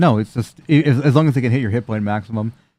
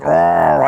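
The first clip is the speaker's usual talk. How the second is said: mock scream; 4 semitones higher than usual. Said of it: "you hear the scream".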